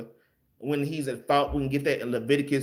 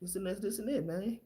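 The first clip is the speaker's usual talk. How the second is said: soft, calm counsel to a brother; soft calm words to an angry brother; calm brotherly quiet; 9 dB quieter than usual. Retold or imitated. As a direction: talk him down gently and softly. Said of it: "come up to me calm and be like".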